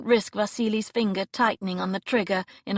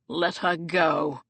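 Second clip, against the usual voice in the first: coldly; 3 semitones lower, slower than usual. Acted. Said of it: "Sebastian said coldly".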